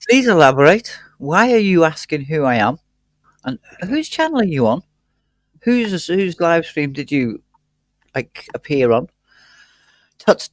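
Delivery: playfully offended, tut-tutting; mock indignation. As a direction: scold them in mock offence.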